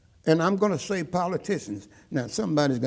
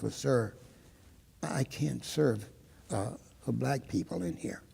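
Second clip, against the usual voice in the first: soft, halting, reluctant refusal; quiet voice; 9 dB quieter than usual. Retold or imitated. Waitress finally admitting why she can't serve, quiet voice. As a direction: imitate someone saying it quietly, with pauses. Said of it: "well, in a quiet voice".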